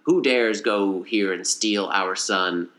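slow, drawn-out monster demand; lightly voiced booming alien threat; big alien voice. Three-eyed alien on screen confronting Chicken Little, slow big voice. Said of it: "using your big voice right now to intimidate".

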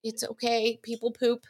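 calm the kid gently, barely voiced; hushed reassuring parent; soothing parent. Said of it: "person in charge was like".

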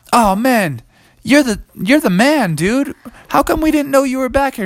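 put-on high-pitched, lively kids' voices; quick, high and eager at the end; excited kids. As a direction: gush like impressed kids. Children excitedly greet the T-Rex.

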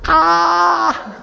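high mock shriek starting up afresh; high, piercing pretend scream; imitated child's scream. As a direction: shriek like two scared little kids. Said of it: "Screaming as loud as she could".

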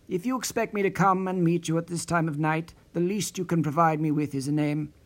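a touch of a scold, understated; man mildly scolding a mysterious caller. Acted. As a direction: tell her off, firm but restrained. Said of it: "Perry scolded the voice".

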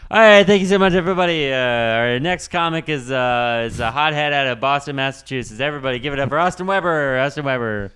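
loud, fast club host introduction; comedy club emcee. Acted. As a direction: hype the next comic to the crowd.

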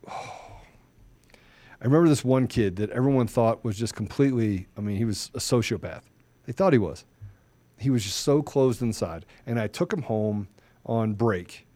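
hushed remembering. Real, not acted. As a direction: drop to a near whisper, moved. Moved, recalling a hurt kid.

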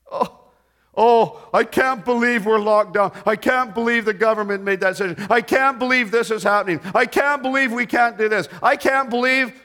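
hammed-up whiny complaint; mock whining. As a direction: whine in mock disbelief, each complaint piling on the last. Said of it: "He didn't whine".

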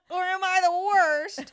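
real laughter at herself; laughing. Real, not acted. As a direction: giggle through the question. Laughing at own blunder.

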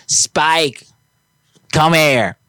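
high sing-song call to a dog. Retold or imitated. Imitating the dog owner calling her dog in, high call. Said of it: "She's like".

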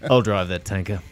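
low, natural Australian line reading; authentic Australian accent. Shown as a demonstration. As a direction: say it as a real Aussie would. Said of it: "that's an authentic one".

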